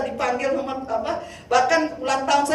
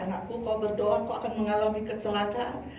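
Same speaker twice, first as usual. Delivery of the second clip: softly retold voice of God; a hint of God's quiet warning, softer; God speaking; 3 semitones lower, 7 dB quieter than usual. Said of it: "Tuhan tuh bicara sama saya". (suara Tuhan yang ditirukan, pelan)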